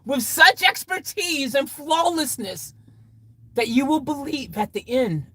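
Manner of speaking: high, showy announcer delivery; grand storyteller boast. Pretend. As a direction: proclaim it with a flourish.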